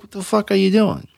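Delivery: a retold, hammed-up drunk snapping back; indignant outburst. Drunk man protesting to the janitor, mock outrage. Drunk biker confronted over keys.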